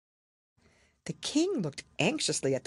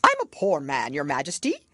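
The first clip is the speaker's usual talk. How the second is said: trembling voice; 5 dB louder than usual. Acted. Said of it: "in a trembling voice".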